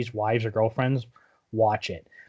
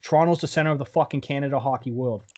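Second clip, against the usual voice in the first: lightly put-on New York accent. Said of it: "doing a New York accent for it".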